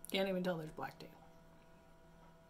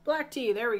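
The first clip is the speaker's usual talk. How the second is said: excited; 4 semitones higher, 11 dB louder than usual. Real, not acted. Finally finds a black tea.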